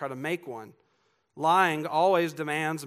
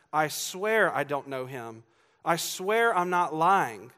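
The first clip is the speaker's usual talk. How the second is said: slow, drawn-out "swear", building louder; insistent swearing; 5 dB louder, slower than usual. Retold or imitated. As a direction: swear it and insist you are truthful. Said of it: "swearing he doesn't even know that man".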